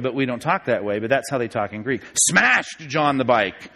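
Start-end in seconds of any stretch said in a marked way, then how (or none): 2.3-3.7 "Smashed" drawn out slowly at the front; emphasis on Smashed. Shown as a demonstration. Husband telling wife about a bad accident, stress on "Smashed". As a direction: hit and stretch "Smashed". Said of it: "that has "smashed" at the beginning".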